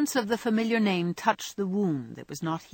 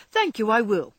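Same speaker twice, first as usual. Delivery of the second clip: in jest; 5 semitones higher, 5 dB louder than usual. A narrator's reading. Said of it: "he answered in jest".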